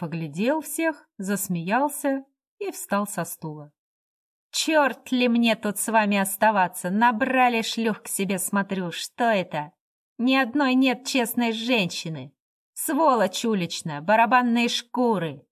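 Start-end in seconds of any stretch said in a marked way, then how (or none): 4.5-15.5 put-on drunken abuse. Drunk insults the guests.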